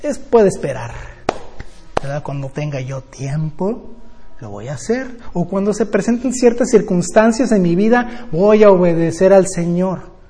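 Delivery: mock procrastinating believer; lazy excuse. Preacher imitates believers who put off obeying, careless. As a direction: brush off God's command casually. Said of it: "y decimos".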